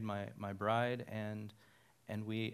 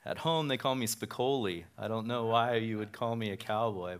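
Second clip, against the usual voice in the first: ordinary talk, nothing marked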